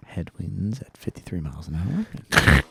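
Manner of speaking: captain reading out the headwinds; over the intercom. Acted. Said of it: "you will hear his voice".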